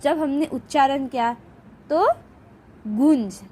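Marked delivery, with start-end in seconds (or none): 2.9-3.4 गुंज set apart, lower, vowel through nose and throat; pause, then sound गुंज through the nose; nasalised vowel. Shown as a demonstration. Teacher repeating the example word, nasalised गुंज. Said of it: "नाक और गले से".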